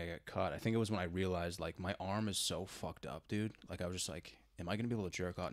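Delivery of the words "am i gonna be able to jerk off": joking. Pretend. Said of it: "No, I'm just kidding".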